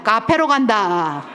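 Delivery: loud, slow drawn-out slogan; repeat-after-me. Shown as a demonstration. Lecturer having couples repeat after her, slow emphatic chant. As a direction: lead the crowd in a chant. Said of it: "자, 따라합니다".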